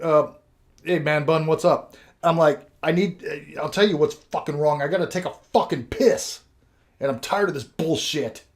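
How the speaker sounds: woozy patient yelling at the orderly about needing to pee; agitated yelling. Retold or imitated. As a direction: bark at the orderly like a cranky drunk. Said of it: "I was yelling for no fucking reason".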